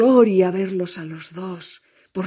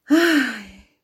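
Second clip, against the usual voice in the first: sigh; 6 semitones higher, 4 dB louder than usual. Acted. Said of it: "suspiró el espantapájaros".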